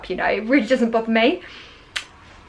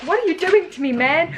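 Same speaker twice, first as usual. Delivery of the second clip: skin complaining in a higher, hammed-up American accent; mock American accent; 6 semitones higher than usual. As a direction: play your upset skin with a put-on American twang. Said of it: "my skin is all of a sudden American".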